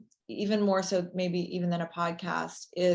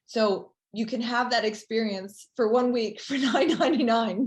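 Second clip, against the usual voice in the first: infomercial voice; 3 semitones higher, 3 dB louder than usual. Pretend. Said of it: "Now I sound like an infomercial".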